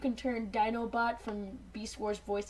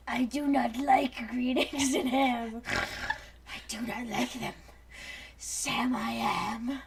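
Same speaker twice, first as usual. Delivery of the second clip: slow Seuss recital; much slower than usual. Pretend.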